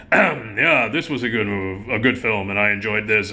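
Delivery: a hint of a disheveled reviewer giving a verdict; grumpy critic impression. Imitating his colleague reviewing films on cable TV, lightly. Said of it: "which is kinda like this".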